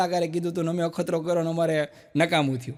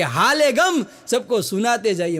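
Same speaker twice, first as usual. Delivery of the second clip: poetic recitation; slower than usual. Acted. Comedian closing the show, slow poetic recitation.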